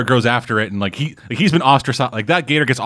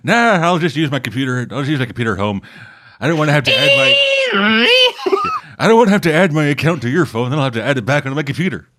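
grandpa voice; 5 semitones higher than usual. Retold or imitated. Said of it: "It's like".

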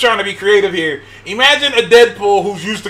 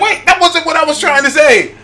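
Deadpool; 6 semitones higher than usual. Acted. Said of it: "Imagine Deadpool trying to curse".

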